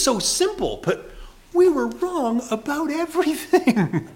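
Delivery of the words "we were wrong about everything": rising higher and louder, laughing between; excited exclamation. Real, not acted. Preacher to the congregation, rising excitement. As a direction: build to a joyful shout.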